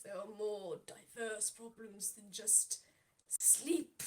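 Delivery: slow, drawn-out musing; weary old patron. Acted. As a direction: muse slowly, weary. Niall's slow wistful request.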